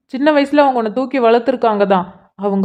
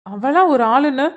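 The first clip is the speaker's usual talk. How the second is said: higher-pitched, irritated challenge without shouting; exasperated reproach; 6 semitones higher than usual. Acted. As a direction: scold her for dodging the question. Brother angered by sister changing subject. (எரிச்சலுடன் கடிந்து கேட்பது)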